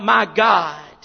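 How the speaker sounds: loud cry to God; loud preached outcry; desperate crying out. Acted. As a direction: call it out in desperation. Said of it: "crying out".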